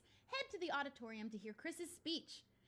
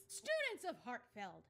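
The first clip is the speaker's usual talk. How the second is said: slightly lower, slow speechmaking voice; best man voice; 3 semitones lower, slower than usual. Shown as a demonstration. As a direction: put on a dignified speaker's voice. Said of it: "let me put on my best man voice".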